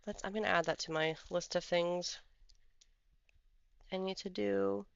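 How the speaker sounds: talking through hiccups; hiccupping between words. Real, not acted. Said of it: "Excuse me, I've got the hiccups".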